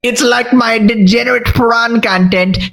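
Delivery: lightly voiced nasal-free Pee-wee impression, slowed in places; a hint of Pee-wee Herman as the Twitch boss. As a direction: play a boss in a goofy Pee-wee style. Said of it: "Why you gotta use Pee-wee Herman".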